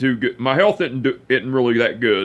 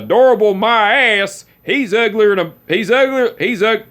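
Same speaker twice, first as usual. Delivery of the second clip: high, loud hammed-up scorn; mock-grumpy uncle; 8 semitones higher, 4 dB louder than usual. Uncle teasing girlfriend about nephew, hammed-up scorn. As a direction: ham up a cranky old uncle's insult.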